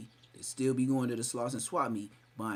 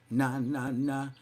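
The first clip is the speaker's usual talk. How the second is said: imitating the intro; slower than usual. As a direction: hype it like a rap intro. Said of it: "that's him".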